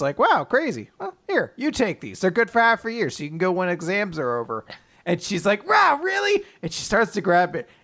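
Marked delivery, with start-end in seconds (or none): 0.2-4.6 lightly voiced sweet boy. Yuiga handing over the tickets. 5.7-6.4 much higher, louder astonished gasp; mock surprised squeak. Asumi offered the free tickets, high amazed squeak.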